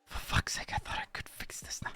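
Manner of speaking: muttered swearing under the breath; exasperated whispered curse; frustrated whisper. Real, not acted. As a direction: whisper it to yourself, fed up. Frustrated aside off mic.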